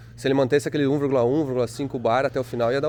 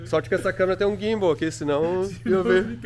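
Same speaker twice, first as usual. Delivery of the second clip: shivering while talking; trembling voice from the cold; teeth chattering; 4 semitones higher than usual. Real, not acted. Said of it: "Tô tremendo". (batendo os dentes de frio)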